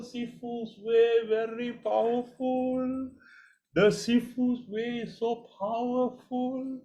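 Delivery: high, slow, proud of Sifu's way; proud boast. Real, not acted. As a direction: sell the method like a master. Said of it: "boasting about his method".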